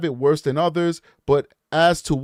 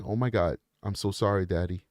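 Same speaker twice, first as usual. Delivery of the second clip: imitated sorry child; 8 semitones lower, 6 dB quieter than usual. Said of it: "He immediately snapped and was like".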